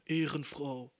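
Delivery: offhand "Ehrenfrau" tossed out; casual youth slang. Retold or imitated. Little sister thanking her sister, casual slang. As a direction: drop Ehrenfrau casually, like schoolyard talk. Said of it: "Und sie dann so".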